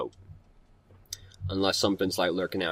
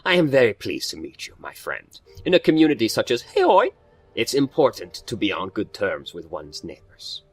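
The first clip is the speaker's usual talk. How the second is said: lightly voiced formal gentleman; a hint of a courteous, cultured foreigner; cultured genial host. Reads Ractor's dialogue in character.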